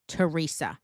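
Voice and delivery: Teresa as tuh-REE-sa, no TH; silent-H correction. Retold or imitated. Student tells teacher it's silent, Teresa with plain T. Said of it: "Like, it's silent".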